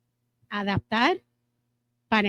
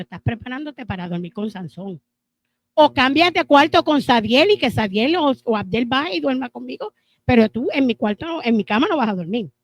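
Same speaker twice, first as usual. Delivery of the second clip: louder, half-joking ultimatum; mock threat; 5 dB louder than usual. Wife warning her husband about where he'll sleep, mock-stern ultimatum. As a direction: lay down the law with a grin.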